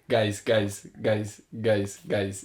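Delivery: lightly imitated Spanish manager; insistent team-talk impression; Arteta. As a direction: call the squad to attention in accented English. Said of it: "my Arteta one's goated".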